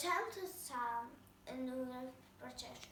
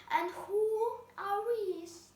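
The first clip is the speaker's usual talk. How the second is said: higher, louder, slow royal demand; queen's demand; 6 semitones higher, 6 dB louder, slower than usual. A narrator's reading. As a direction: ask it slowly like a haughty queen. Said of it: "asked the queen".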